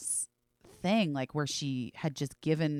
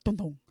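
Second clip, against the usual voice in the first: imitated thumps. Shown as a demonstration. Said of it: "it's a very specific sound".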